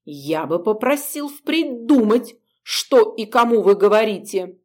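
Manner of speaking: eldritch horror voice, hissed; a touch of ghostly menace; otherworldly hiss. Acted. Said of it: "потусторонним голосом и прошипел".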